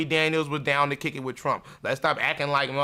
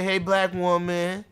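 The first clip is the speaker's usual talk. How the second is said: sly smooth-talking white man; 3 semitones higher than usual. Retold or imitated. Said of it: "He said".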